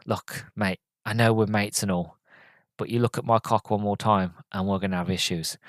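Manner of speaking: low, softened mock threat; quiet warning. Steve warns Billy not to look, quiet mock warning. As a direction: warn a mate, low and quiet.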